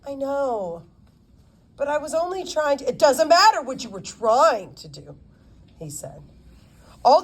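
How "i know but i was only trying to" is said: a hint of a protesting twelve-year-old, a bit fast; lightly voiced girl cutting in; defensive girl. A hint of the girl defending herself to her lawyer.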